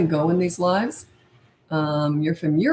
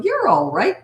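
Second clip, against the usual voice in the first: lightly lifted, cheery reassurance; 4 semitones higher, 3 dB louder, slower than usual. Shown as a demonstration. Parent answering a tantrum without comforting it, cheery. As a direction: brush it off cheerily. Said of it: "See my cheery tone?".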